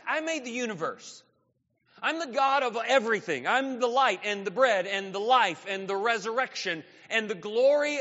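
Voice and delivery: rising, emphatic incredulity; a touch of grand, wounded astonishment; indignant disbelief. Acted. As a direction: remind him who he's talking to. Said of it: "great pause and emotion".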